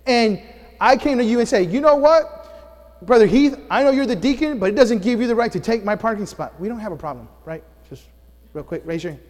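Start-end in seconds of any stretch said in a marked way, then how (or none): 1.7-6.6 angry confrontation. Acted. Pastor acts out angry confrontation.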